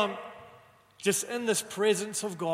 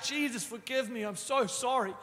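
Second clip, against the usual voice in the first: higher, pleading voice, a touch of tears; imitating weeping plea; 5 semitones higher than usual. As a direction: lightly voice the sobbing teen. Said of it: "he is weeping as he begins yelling out".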